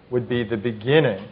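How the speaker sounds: "beginning" set apart by a pause and picked out; mild emphasis on the word "beginning"; stress on beginning. Real, not acted. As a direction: lean lightly on "beginning", letting it fall at the end. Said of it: "I emphasize the word beginning".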